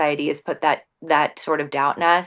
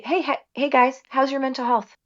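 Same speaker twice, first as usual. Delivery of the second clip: put-on much higher, upbeat calling to the kids; cheery parent call-out; 8 semitones higher than usual. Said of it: "I just say".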